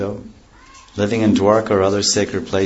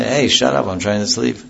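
mock yell, higher and louder; annoyed shout; 3 semitones higher, 3 dB louder than usual. Woken listener shouting at the one o'clock drummer, mock angry. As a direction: bark it at the man drumming. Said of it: "What will you say?".

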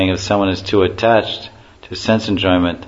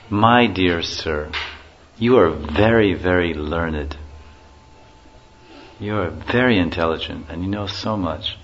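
humble flattery. Pretend. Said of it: "with a straw between our teeth".

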